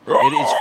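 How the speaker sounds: shrieking high elk bugle; elk trumpet call. Shown as a demonstration. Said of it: "It's like this crazy trumpet noise".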